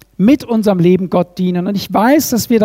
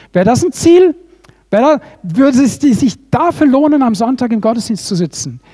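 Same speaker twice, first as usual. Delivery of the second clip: impassioned question; 3 semitones higher than usual. Real, not acted. Rhetorical climax question.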